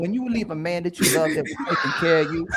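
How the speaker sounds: cracking up while making the point; laughter breaking into the sentence; can't keep straight face. Real, not acted. Debater arguing about leaving a man, failing to keep straight face. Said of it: "can't even say that with a straight face".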